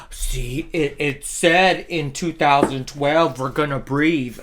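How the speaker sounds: lightly mocking gasping doomsayer, slow; a touch of hammed-up alarm; mock alarmed believer. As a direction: imitate a credulous person announcing a prophecy. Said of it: "sometimes people go".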